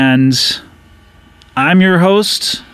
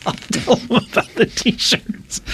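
hushed whisper aside; 3 semitones higher, 7 dB quieter than usual. Acted. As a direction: whisper it secretly. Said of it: "why are you whispering this to him?".

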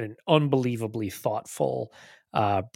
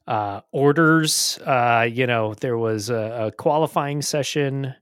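unimpressed. Real, not acted. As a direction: list it like nothing happened. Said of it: "if I sound a little bit underwhelmed".

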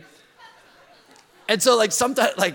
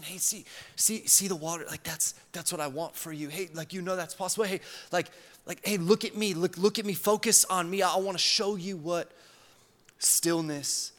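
gentle loving father. Retold or imitated. Loving father guiding his child, gently reassuring. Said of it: "the voice of a loving father".

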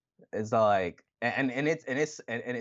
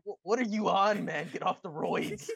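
high mock disbelief; 9 semitones higher than usual.

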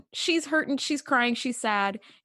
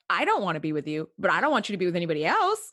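mock ex quote; 4 semitones lower, faster than usual. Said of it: "But it's like".

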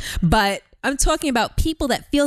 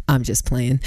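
laughing; 13 semitones higher than usual. Real, not acted. Jokes, then laughs.

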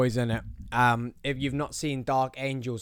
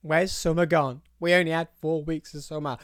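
higher, louder mock complaint; mock whinging; 6 semitones higher, 5 dB louder than usual. People complain summer has gone, mock whinging. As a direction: imitate people moaning, pitched up. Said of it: "those same people will be then whinging".

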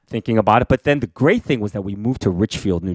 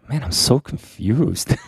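confused; slower than usual. Retold or imitated. Imitating host's puzzled face.

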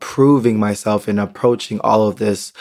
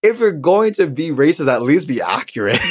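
exasperated; 7 semitones higher than usual. Real, not acted. Outraged rant at racist stranger.

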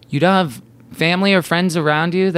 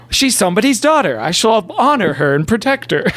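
put-on homeschool boy; 5 semitones higher than usual. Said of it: "like from a homeschool mail-in".

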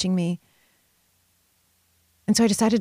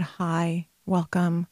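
gentle greeting; lightly voiced kind welcome; soft welcome; 2 semitones lower, 5 dB quieter, much slower than usual. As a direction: greet softly like a hug.

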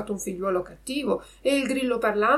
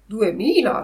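cat echoing; 2 semitones higher, 6 dB louder than usual. Acted. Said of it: "ripeté il gatto".

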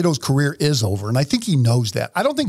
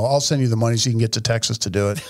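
laughing; 4 semitones lower, faster than usual. Real, not acted. Joking offer, laughs through it.

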